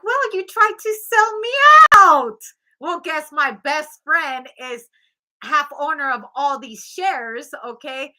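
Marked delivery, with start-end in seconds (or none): 0.0-2.4 high indignant cry at her son, rising loud on out; mock angry mother. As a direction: accuse him, voice pitched up high and sharp at the end. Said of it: "she was like".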